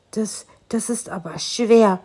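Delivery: slow, hesitant whisper. A narrator's reading. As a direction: whisper it, daunted by the task. Sparrow hesitant, daunted.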